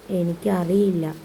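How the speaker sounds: put-on slow, mildly tearful child character; sobbing, voice breaking. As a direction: drag the words out with a touch of a sob. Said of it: "തേങ്ങലിൽ അവൻ്റെ ശബ്ദം മുറിഞ്ഞുപോയി". (തേങ്ങലോടെ, ലേശം ഇടറിയ ശബ്ദത്തിൽ)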